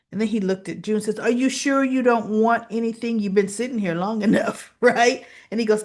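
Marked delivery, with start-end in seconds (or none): 1.2-5.2 brisk, slightly raised, pushy waitress retelling; pointed prodding. Retold or imitated. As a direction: retell a waitress needling a customer. Waitress pointedly prods silent customer.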